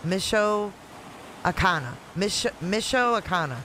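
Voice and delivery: "Michoacana" slowly, sounded out in parts; halting attempt at "Michoacana", syllable by syllable; trying out pronunciation. Shown as a demonstration. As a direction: feel your way through "Michoacana". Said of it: "let me try to pronounce it".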